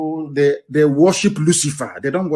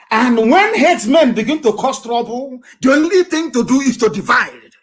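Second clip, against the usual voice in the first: high, ringing declaration; forceful preaching; 8 semitones higher, 4 dB louder than usual. Real, not acted. Preacher urging pastors toward separation, forceful declaration. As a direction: proclaim the conclusion with raised pitch. Preacher drives home his main conclusion.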